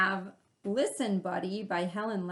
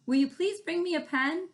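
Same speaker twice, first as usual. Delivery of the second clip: repeating father; 9 semitones higher, 5 dB louder than usual. Acted.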